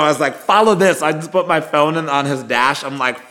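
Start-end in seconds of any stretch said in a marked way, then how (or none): 0.4-1.0 high, loud, punchy order; retold urgent command. Passenger tells the Uber driver to chase her keys, retold urgent command.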